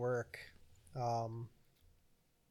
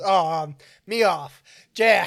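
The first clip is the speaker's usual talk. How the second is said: lightly voiced movie character; 5 semitones higher, 14 dB louder, slower than usual. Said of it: "he goes".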